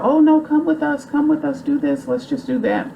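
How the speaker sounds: very high, gushing Southern belle voice; sweet, sky-high gushing over a new friend. Retold or imitated. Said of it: "she was just all over her".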